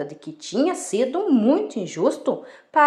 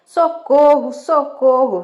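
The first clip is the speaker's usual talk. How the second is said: raised, higher cry for help; shouting for help; 4 semitones higher, 5 dB louder than usual. Acted. Shepherd boy fooling the villagers once more, shouting for help. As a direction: call out to the village in mock alarm. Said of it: "decidiu gritar de novo".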